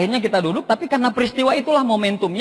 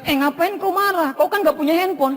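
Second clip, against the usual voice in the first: scolding wife; 6 semitones higher than usual. Retold or imitated. Wife scolds him, voiced in story.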